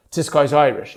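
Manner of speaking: Irish lilt, put on; Irish accent. Shown as a demonstration. Showing he could pass as from Limerick, Irish accent. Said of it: "if I spoke like this the entire time".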